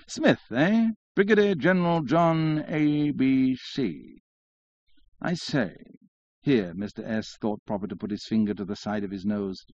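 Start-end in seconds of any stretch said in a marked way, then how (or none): 0.1-5.8 high, slow affected drawl; drawling syllables. A narrator's reading. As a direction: draw the letters out one by one. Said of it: "drawling out his syllables".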